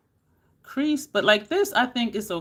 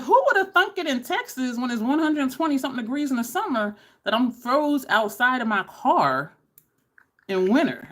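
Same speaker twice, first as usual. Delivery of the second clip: mock disbelief; 6 semitones higher than usual. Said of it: "And I'm like".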